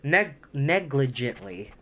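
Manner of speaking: "negligently" said slowly and carefully; careful retry. Real, not acted. Reader finally getting the word, slow and careful. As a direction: take "negligently" slow, syllable by syllable. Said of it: "there we go".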